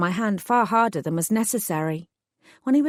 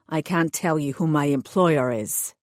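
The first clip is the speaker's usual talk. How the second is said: lower, steady man's voice, a touch sullen; hired thug voice; 4 semitones lower than usual. Acted. Thug explains his orders to the heroine, sullen lowered voice. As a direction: play the sulky hired heavy explaining himself.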